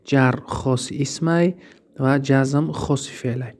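جر خاص اسمه repeated slowly and clearly for note-taking; slow dictation. Shown as a demonstration. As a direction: repeat it deliberately so nobody mixes them up. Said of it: "اینا را ایش دهیش رو مخته نکنین".

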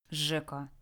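low, soft warning; quiet threat. Acted. Lara to Jack while tending Red, quietly threatening. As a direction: warn him without raising your voice. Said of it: "пообещала Лара".

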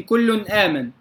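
كل آمن with the tanween noon, then a distinct hamza; clear izhar. Shown as a demonstration. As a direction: separate kullun from aaman in كل آمن. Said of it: "كذلك في". (إظهار تنوين كل آمن)

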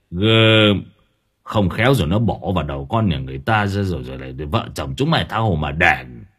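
gruff grandpa complaining about the phone; grumbling grandfather. Acted. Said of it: "Ông Hướng thì khục khoạc".

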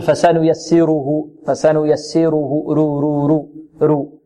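فسنيسره with a thin, under-thickened ر; weakened tafkheem. Shown as a demonstration. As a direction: say the ر of فسنيسره too light, as a mistake. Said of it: "ربما يضعف التفخيم". (فسنيسره بتفخيم ضعيف للراء)

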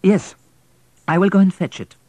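put-on a wife pleading for the boy. Wife voiced.

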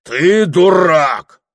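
громко и протяжно, с нажимом на ТЫ; рявкни обиду; пьяный выкрик. Acted. Пьяная ссора, выкрик. (пьяный крик)

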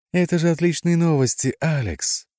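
put-on high, loud, delighted girlish exclamation; joyful squeal. A narrator's reading. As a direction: squeal with joy at the news. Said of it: "радостно взвизгнула она". (радостный визг)

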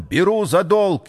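high-pitched urgent call; crying out. A narrator's reading. Числов offers to buy on credit, crying out. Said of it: "закричал он".

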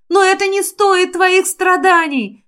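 high, pleading outburst; exclaiming. A narrator's reading. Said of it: "воскликнула я".

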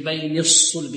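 الصلب pursed from the first saad; early lip rounding. Shown as a demonstration. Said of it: "نضم الشفتين".

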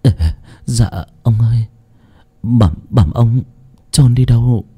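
a hint of a timid stammering servant. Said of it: "lắp bắp".

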